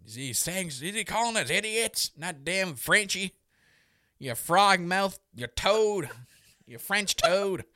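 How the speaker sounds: high-pitched outraged hick heckler; mock an indignant hick hater with a heavy hick twang. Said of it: "put this hick, hick sounding voice".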